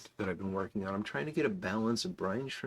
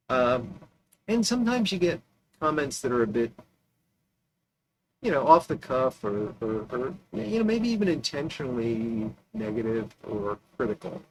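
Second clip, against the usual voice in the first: fuzz distortion; 3 semitones higher, 5 dB louder than usual. Real, not acted. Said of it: "Sorry about the distortion that's about to occur".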